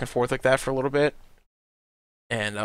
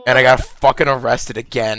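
laughing shout; 9 dB louder than usual. Real, not acted. Laughing at his own story.

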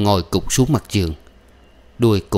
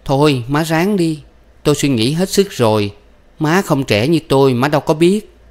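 higher-pitched, lightly sugared pleading; sweetened coaxing; 7 semitones higher than usual. A narrator's reading. Woman coaxing the old mother to take over, mildly sweet. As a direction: coax her with put-on sweetness. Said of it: "đổi giọng ngọt ngào".

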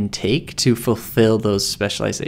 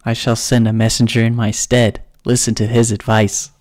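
dark lord. Acted. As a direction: boom down at a foolish mortal. Overlord scolds student in skit.

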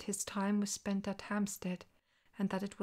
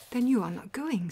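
louder, higher flat refusal; defiant retort; 4 semitones higher, 8 dB louder than usual. A narrator's reading. Watson defies Holmes's refusal, loud and indignant. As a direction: throw the refusal right back at him.

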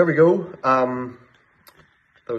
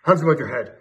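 much higher, loud commanding shout; police shout; 6 semitones higher, 7 dB louder than usual. A narrator's reading. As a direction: bark the order. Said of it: "there was a shout".

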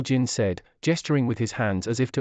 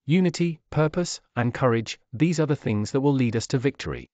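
a wounded chief forcing out each word; broken voice. Acted. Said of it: "spoke in a broken voice".

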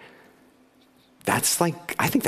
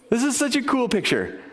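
excited thought. Retold or imitated. Excited quote of own thought.

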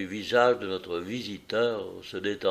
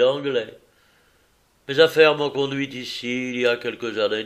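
lightly voiced visitor, a touch louder throughout; hearty visitor voice; 3 semitones higher, 4 dB louder than usual. Visitor pressing Holmes to get to business, hearty. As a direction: talk business, hearty and a bit impatient.

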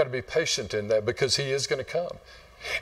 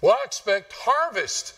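higher, indignant farmer retort; stubborn farmer; 8 semitones higher than usual. Retold or imitated. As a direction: snap back like a stubborn farmer. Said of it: "farmer answers wife".

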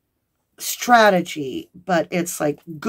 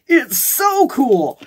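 slow gushing; 6 semitones higher, 4 dB louder, much slower than usual. Retold or imitated. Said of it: "You're like".

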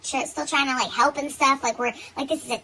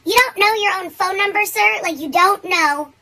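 loud incredulous scolding; 7 semitones higher, 7 dB louder than usual. Retold or imitated. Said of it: "I'm like".

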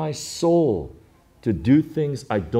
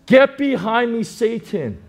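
forceful Jesus; 10 semitones higher, 5 dB louder, slower than usual. Retold or imitated. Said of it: "He says".

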